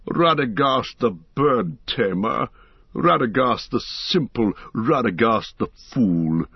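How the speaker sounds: slow, mild mocking list of names; open scorn. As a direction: sneer at each name, understated. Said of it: "no longer concealed his scorn".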